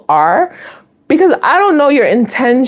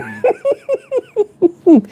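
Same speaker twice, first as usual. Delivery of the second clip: big laugh; 14 semitones higher than usual. Real, not acted.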